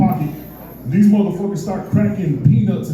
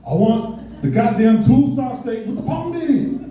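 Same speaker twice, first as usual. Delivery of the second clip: mad; 6 semitones higher than usual. Retold or imitated. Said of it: "I'm getting mad".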